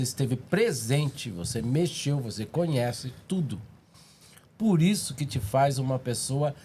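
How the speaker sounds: talking with mouth full; chewing while talking. Real, not acted. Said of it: "vou falar de boca cheia".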